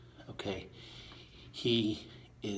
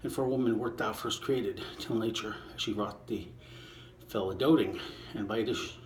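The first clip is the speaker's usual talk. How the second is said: poem reading. Acted. Reader reciting Shakespeare to listeners, measured poem voice. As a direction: give each line its verse shape. Reading sonnet twenty aloud.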